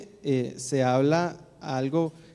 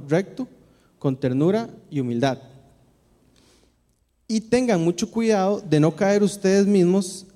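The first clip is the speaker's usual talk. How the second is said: measured, solemn Bible reading; scripture reading. Acted. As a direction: read the passage to the congregation with weight. Reads Gálatas passage to congregation. (lectura bíblica solemne y pausada)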